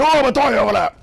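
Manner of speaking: high, loud silly fighter voice; mocking a fighter's throw taunt; goofy game voice. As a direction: mimic a bad game audio cue. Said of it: "Oh, man".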